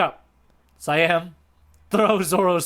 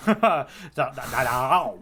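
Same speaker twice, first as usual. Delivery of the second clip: vocal sound effect; 3 semitones lower, slower than usual. Retold or imitated. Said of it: "that's a pretty good noise".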